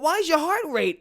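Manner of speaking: high-pitched, loosely attempted Russian accent; slipping mock Russian accent. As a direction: imitate a Russian-accented woman asking. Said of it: "Russian accent, she goes".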